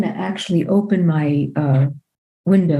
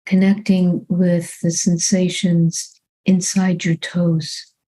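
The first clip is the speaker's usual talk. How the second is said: calm, unhurried meditation guidance with long pauses; measured body-scan voice, phrase by phrase; guided meditation; 2 semitones lower than usual. Real, not acted. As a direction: guide them gently into the body, leaving long silences.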